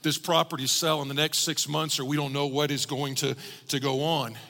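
understated desperate plea, a little lifted; retold plea with a touch of urgency; mild desperation. Preacher retelling a congregant's prayer about selling property, mildly desperate. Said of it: "you could even sense the desperation".

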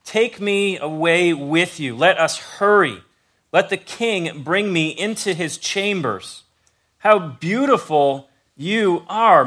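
slow, tender reading of a love poem; scripture reading. Acted. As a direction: read it like a love poem, unhurried. Reads Song of Solomon aloud.

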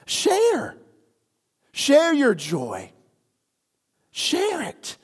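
high, loud Share, drawn out; preacher's cry. Acted. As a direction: call Share out to the crowd. Climax of the point.

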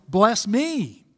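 "me" held long and unashamed; unembarrassed personal plea. Acted. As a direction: lean on "me", drawing it out. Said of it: "he's not shy or embarrassed to pray this way".

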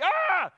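sudden high, loud yelp; Calvin's outburst. Acted. Preacher showing Calvin's wild moments, high loud yelp. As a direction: blurt a high, loud cry like an excited kid. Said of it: "he's like".

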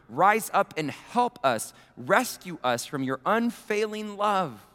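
lightly solemn reading of a lament; scripture reading. Acted. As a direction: read the psalm with gentle weight. Reading the psalm aloud.

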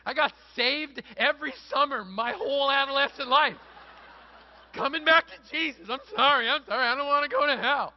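high, very loud mock wailing; hammed-up desperate shouting. Preacher mimics his teenage self fleeing hell, frantic pleading. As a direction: cry out like a panicked, penitent kid. Acting out scared camper's repeated conversions.

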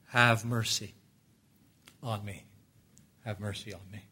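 low, soft plea for mercy; hushed plea. Acted. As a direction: beg quietly, with pauses. Acted beggar pleading for mercy.

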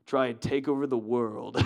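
lightly voiced scheming cartoon mouse; a hint of the plotting mastermind mouse; Brain from Pinky and the Brain. Preacher imitating Brain's plan, lightly voiced schemer. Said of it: "And he's like".

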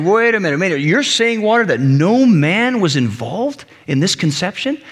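mildly challenging courtroom questioner; incredulous questioner. Acted. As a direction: question the witness in disbelief. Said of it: "as I'm questioning water".

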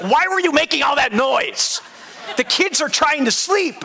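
high-pitched scolding, imitated; mad wife. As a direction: act out an annoyed wife telling off the husband. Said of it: "My wife was so mad at me".

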